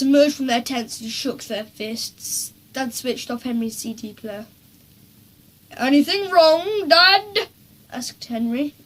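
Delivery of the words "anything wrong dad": sweetest voice. A narrator's reading. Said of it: "in his sweetest voice".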